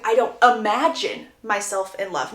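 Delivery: "imagine" punched out in an indignant denial; object, with "imagine" picked out from the rest; stress on imagine. Retold or imitated. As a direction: lean hard on the word "imagine". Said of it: "the emphasis on imagine is not me".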